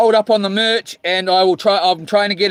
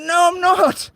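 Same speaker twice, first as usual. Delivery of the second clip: mock wife; 9 semitones higher than usual. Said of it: "And she's like".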